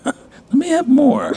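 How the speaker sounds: laughing tipsy fox. Acted. Tipsy fox asks for wine.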